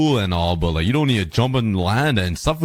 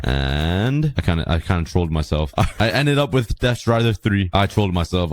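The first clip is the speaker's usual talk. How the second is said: numb mouth; 3 semitones lower than usual. Real, not acted. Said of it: "I'm mumbling a lot this video".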